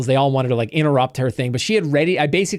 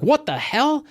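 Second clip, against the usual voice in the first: startled outburst; 11 semitones higher, slower than usual. Retold or imitated. Startled character reacts.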